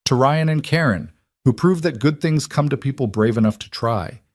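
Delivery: toast. A narrator's reading. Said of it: "raising his glass".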